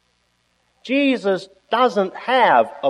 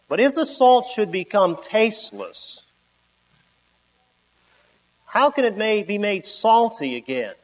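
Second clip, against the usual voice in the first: scripture reading. Acted. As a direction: read the verses with weight and pauses. Reads scripture slowly aloud.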